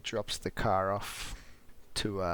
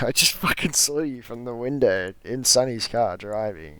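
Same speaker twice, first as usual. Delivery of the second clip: louder, higher mock exasperation; exasperated dad; 3 semitones higher, 6 dB louder than usual. The father calls out his son for lying. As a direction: catch him in the lie.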